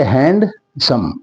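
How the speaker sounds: "हैंडसम" slowly as हैंड, सम; two measured beats on "हैंडसम"; syllable split. Shown as a demonstration. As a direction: set "हैंड" apart from "सम" in "हैंडसम". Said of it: "दो syllable हो गए".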